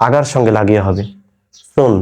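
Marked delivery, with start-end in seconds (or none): 1.7-1.9 "সুন" with tongue tip touching the upper teeth; lisped th at the start of "সুন"; tongue-tip th sound. Shown as a demonstration. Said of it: "জিহ্বার আগা ওপরের দাঁতের". (জিভের আগা ওপরের দাঁতে লাগিয়ে "সুন")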